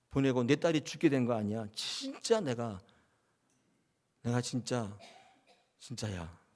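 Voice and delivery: grumbling resentment. Acted. A grieving father blaming Jesus, bitter complaint. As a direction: start muttering, rise to indignant, fade out. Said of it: "원망했겠죠".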